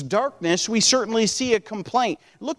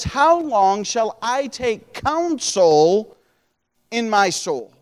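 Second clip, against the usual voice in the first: slow emphatic reading; slower than usual. Shown as a demonstration. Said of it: "I want you to notice this".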